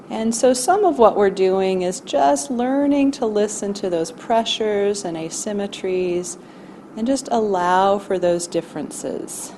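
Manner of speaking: calm, measured meditation voice with long pauses; guided body scan. Acted. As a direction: gently guide listeners through noticing their body.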